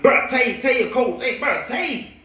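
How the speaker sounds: high-pitched mock amazement; imitated disbelief. Old friends hearing that Tay is a coach, disbelieving. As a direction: act out people who can't believe it.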